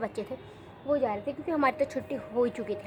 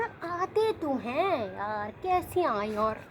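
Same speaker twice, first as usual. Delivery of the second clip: exasperated protest; 2 semitones higher than usual. Retold or imitated. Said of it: "मैंने कहा".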